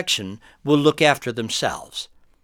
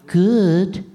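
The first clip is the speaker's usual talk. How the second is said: flat reply; 3 semitones higher, 3 dB louder than usual. Shown as a demonstration.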